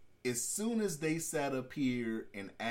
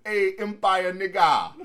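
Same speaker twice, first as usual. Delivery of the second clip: loud, higher mock holler through laughter; imitated yelling; 5 semitones higher, 12 dB louder than usual. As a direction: holler it at someone, amused. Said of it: "yelling at him".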